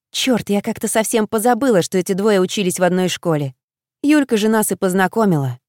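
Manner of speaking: ordinary delivery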